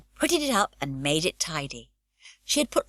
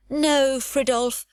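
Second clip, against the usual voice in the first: Pippi refusing; 8 semitones higher, 4 dB louder, much slower than usual. A narrator's reading. Pippi brushing off the sailor.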